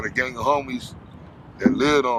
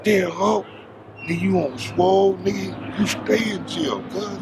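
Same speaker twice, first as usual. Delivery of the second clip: put-on higher, excited voice for an old homie; retold friend greeting; 8 semitones higher than usual. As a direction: greet him like a surprised friend. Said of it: "He like".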